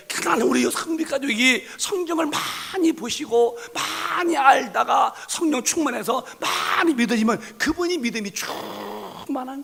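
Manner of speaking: high, loud, impassioned sermon delivery; fiery preaching. Acted. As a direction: preach it with full fire. Preaching at full force.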